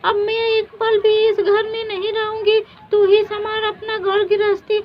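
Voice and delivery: high, loud angry quarrel. Acted. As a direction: storm off in a huff. Sisters quarrel, one storms off.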